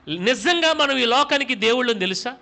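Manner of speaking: ordinary talk, nothing marked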